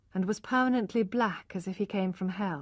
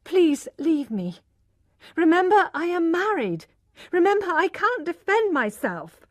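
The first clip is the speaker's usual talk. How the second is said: much higher and louder, frightened begging; desperate plea; 9 semitones higher, 6 dB louder than usual. A narrator's reading. Tess begging Alec to leave her alone, frightened. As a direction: push him away with your voice.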